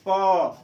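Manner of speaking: प as a clear single sound, both lips touching; lips-together प. Shown as a demonstration. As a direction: demonstrate प with the lips meeting. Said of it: "दोनों ओठ क्या हो रही है".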